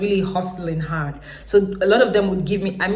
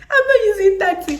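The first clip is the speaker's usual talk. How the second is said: much higher, louder, stressing not; emphatic repeat; 14 semitones higher, 6 dB louder than usual. Retold or imitated. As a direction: repeat it with a laughing punch on not. Repeats the refusal more emphatically.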